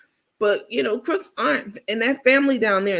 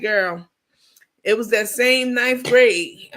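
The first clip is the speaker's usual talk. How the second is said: exasperated retort; 5 dB louder, slower than usual. Retold or imitated. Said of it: "I'm like".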